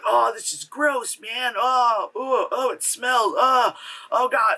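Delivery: mock grossed-out whine; acted disgust. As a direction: groan in revulsion at a gross smell. Acting out disgusted cleaners on GoPro.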